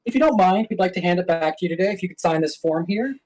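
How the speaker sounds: bright, overly polite clerk; customer service voice. Pretend. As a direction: smile through a firm brush-off. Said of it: "pretend that Peej is the customer and then berate him".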